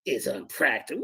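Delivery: unpractical lifted into a mocking rise; mock repeat. Debater mocking an opponent's word choice, rising mock echo. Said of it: "Who talks like this".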